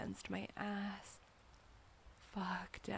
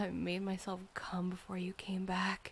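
ordinary delivery

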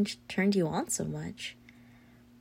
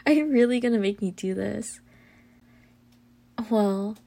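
ordinary talk, nothing marked

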